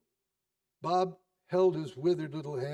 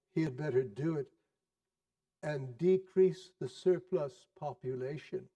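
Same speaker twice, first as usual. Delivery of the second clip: solemn ghost. Acted. Ghost quotes Scrooge's words.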